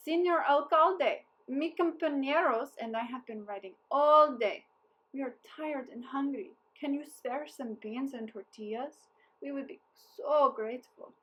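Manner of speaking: a hint of a smooth-talking captain; sly polite captain. A narrator's reading. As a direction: charm the mayor for food. Hungry captain begs politely.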